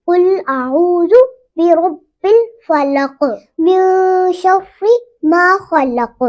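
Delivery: slow, drawn-out tajweed recitation; slow Quran recitation. Shown as a demonstration. Teacher reciting the full verse for students, slow. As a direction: recite the verse slowly and carefully. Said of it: "reciting the verse slowly".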